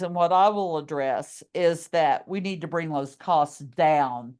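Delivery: ordinary talk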